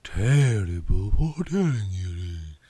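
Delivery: a hint of Southern belle; shy Southern confession; southern drawl. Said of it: "in her thick southern drawl".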